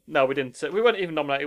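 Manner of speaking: normal talking voice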